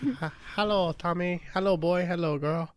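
lightly voiced landlord greeting; landlord impression. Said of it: "We gotta have the landlord on the podcast".

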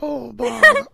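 high, slow cartoon bear impression; Winnie the Pooh. Doing a cartoon bear for friends, high slow voice. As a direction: draw it out like an old man. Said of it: "That's Winnie the Pooh".

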